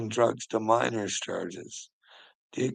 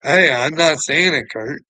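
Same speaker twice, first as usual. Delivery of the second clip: teasing denial; 5 semitones higher, 10 dB louder than usual. Real, not acted. Denying accusation teasingly to Kurt.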